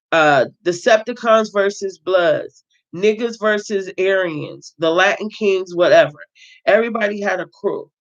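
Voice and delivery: steady read-aloud narration of a prison memoir; reading a novel aloud. Acted. Reader voicing the book's narrator, read-aloud narration. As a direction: read it like a story to your viewers.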